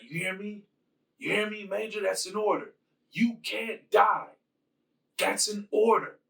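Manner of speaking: lightly voiced officer pleading, pressing each order; commanding plea. Sonya orders dying Jax to live.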